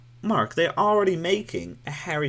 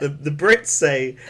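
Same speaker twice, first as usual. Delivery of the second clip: slow, stumbling run-up with laughter; slow, struggling lead-up; halting false start; 4 dB louder, slower than usual. Real, not acted. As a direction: stumble laughing into the accent demo. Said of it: "You sound like you're having a stroke".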